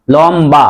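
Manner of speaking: লম্বা said lom-ba with a clear b; b sound kept. Shown as a demonstration. Teacher shows the rule to students, b pronounced. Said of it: "ব এর উচ্চারণ".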